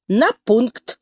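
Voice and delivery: sterner order; stricter. A narrator's reading. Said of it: "добавила она ещё строже".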